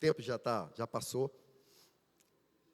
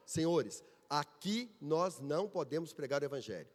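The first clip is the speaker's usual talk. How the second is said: mildly grave, lowered quote; serious voice; 4 semitones lower than usual. Retold or imitated. Church elder telling visitors the rule, in a serious voice. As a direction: imitate an elder stating a solemn rule. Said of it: "com uma voz séria".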